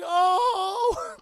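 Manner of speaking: loud high yelp; a sudden jolted cry; startled shout. Retold or imitated. Peter reacting, shouted.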